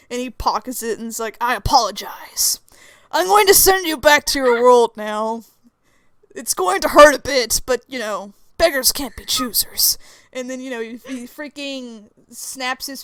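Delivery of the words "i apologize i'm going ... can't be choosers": composed Lucifer. Acted. Plays Lucifer sending them home.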